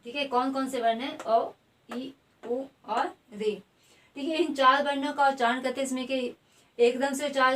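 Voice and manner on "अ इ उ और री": उ और री drawn out slowly; short vowels demonstrated. Shown as a demonstration. Teacher names the short vowels for the class, slowly. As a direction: sound each short vowel clearly, then slow down. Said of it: "कौन से वर्ण हैं जो एकदम से उच्चारित".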